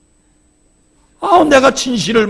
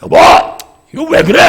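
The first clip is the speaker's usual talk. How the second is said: higher, louder mock complaint to a wife; husband's brief demo grumble, raised voice; sample yell at wife; 9 semitones higher, 10 dB louder, faster than usual. Shown as a demonstration. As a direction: show the harmless kind of shouting. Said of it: "소리는 질러도 괜찮으세요".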